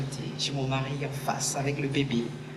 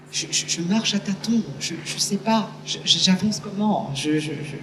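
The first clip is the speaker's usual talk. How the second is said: higher, stumbling over the words; flustered stammer; 6 semitones higher than usual. Retold or imitated. Mother retelling her dazed dash to her crying daughter, flustered stammer. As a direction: stammer as if groping through fog.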